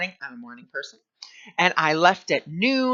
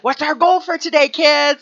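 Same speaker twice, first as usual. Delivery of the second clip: put-on high, loud, bright-eyed teacher calling to the kids; preschool teacher voice; 10 semitones higher, 9 dB louder than usual. Kindergarten teacher asking the class its goal, high and loud. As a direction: sing it out to a circle of little kids. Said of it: "I'd be like".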